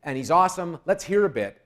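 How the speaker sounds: lightly acted MC hyping an act; retold stage introduction. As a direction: re-enact a quick announcement into the mic. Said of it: "I have my mic, and I say".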